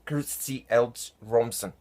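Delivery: "Kirsty Elch Romson", carefully separated word by word; deliberate alien-language "Kirsty Elch Romson"; repeated pronunciation demo. Shown as a demonstration. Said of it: "It sounds like".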